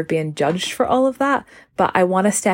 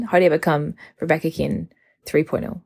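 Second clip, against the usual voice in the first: ordinary talk, nothing marked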